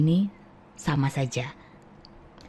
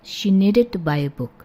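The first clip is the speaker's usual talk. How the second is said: fast; 2 semitones higher than usual. Shown as a demonstration. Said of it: "pronunciation-nya berubah sedikit".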